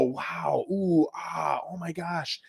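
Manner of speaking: hushed, amazed gasps of delight; awed buyers. Retold or imitated. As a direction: breathe it out in wonder. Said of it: "they go".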